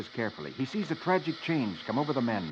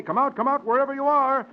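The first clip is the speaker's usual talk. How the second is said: calling out; 12 semitones higher, 5 dB louder than usual. Acted. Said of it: "you can say".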